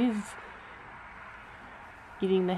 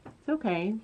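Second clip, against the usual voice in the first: soft soothing; 7 dB quieter than usual. Real, not acted. Soothing the horse.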